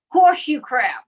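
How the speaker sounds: loud, punchy magic word; magic word shout. Pretend.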